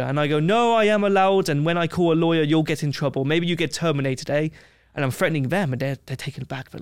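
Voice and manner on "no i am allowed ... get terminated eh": defiant retort. Retold or imitated. Traveller retelling how he defied Kenyan police, mildly defiant. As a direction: stand your ground, calling their bluff. Defying police in interrogation room.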